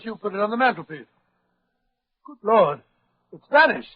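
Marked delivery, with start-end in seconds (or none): 2.3-3.9 startled discovery; surprised. Acted. Watson discovers theft.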